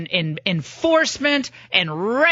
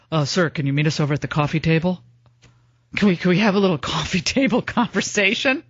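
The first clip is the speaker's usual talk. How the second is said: mock Obama; 5 semitones lower, faster than usual. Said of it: "And now it's".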